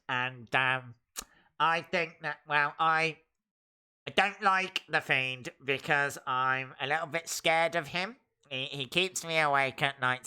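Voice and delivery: mock the shy game maker; mocking nerd voice. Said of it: "probably talks like this".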